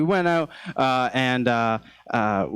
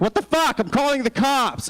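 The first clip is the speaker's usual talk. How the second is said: startled; 11 semitones higher than usual. Pretend. Woman waking to intruder.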